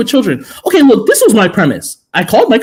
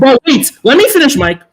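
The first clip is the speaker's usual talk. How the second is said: higher-pitched, pressing protest; insistent interruption; 4 semitones higher than usual. Real, not acted. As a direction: push to be allowed to finish. Fighting to keep the floor.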